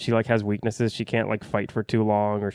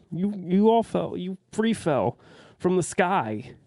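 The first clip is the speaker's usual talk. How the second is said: incredulous mock; 8 semitones higher than usual. Reviewer mocking the panicking characters, high and incredulous. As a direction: talk down to them like it's absurd.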